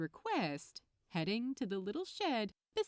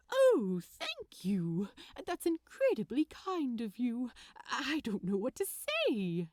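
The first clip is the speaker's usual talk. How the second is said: touched Aziraphale; 4 dB louder than usual. Acted. Gentleman touched by an unexpected gift, gently gushing.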